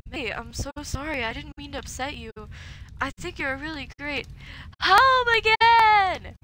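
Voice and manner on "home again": loud, slow drawn-out cheer; drunken cheer. Acted. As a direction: belt it out like a drunk homecoming. Drunk May shouting.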